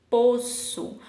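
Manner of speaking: slow "poço" with Ç as S; teacher sounding out "poço"; cedilla demo. Shown as a demonstration. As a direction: stretch "poço" to show the S sound. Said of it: "ó o sonzinho de S".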